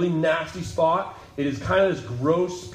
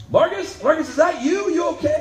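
higher, louder call across the river; shouting from the bank; 13 semitones higher, 4 dB louder than usual. Retold or imitated. Earl shouting down the bank to Marcus at the wreck, higher and louder call. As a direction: call out his name from up the bank, worried.

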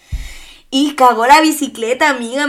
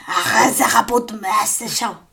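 fake Arabic; 3 semitones lower, slower than usual. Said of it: "Me sonó como alemán".

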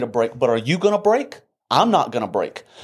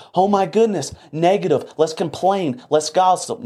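mocking gossipers. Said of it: "I don't speak like that".

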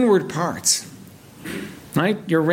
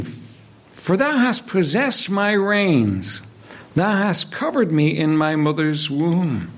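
solemn, measured Bible reading; scripture reading. Acted. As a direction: read each verse with reverence. Reads psalm aloud in sermon.

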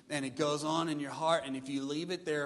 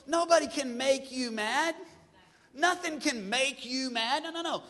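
higher and louder, punching nobody and nothing; preaching emphasis; 9 semitones higher, 5 dB louder than usual. Real, not acted. Preacher insisting to the congregation, loud and high. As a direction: lean hard on the first word like a pulpit point. Preacher driving the point home.

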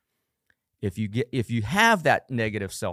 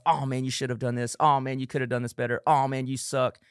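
mock inner critic; 3 semitones higher than usual. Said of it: "negative speak to yourself".

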